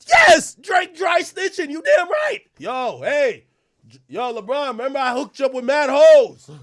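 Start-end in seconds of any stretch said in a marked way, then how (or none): 0.1-2.4 slow emphatic shout. Real, not acted.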